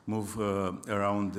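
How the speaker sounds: normal talking voice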